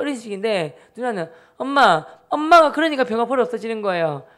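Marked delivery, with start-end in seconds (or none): 1.6-4.2 sister's loud, mildly indignant complaint; mock scolding. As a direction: imitate a sister telling mother off. Sister scolding about brother, acted.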